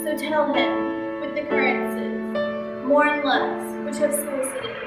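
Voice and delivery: fading, breathy dying words; faint deathbed whisper. Acted. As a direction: barely get the words out, dying. Dying Hamlet's last words.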